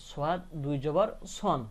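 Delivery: slow spelling down to "সন" with an n; tanween with noon. Shown as a demonstration. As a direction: finish "সন" on a held n. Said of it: "নুনের সাথে মিলাই উচ্চারণ করতে হবে".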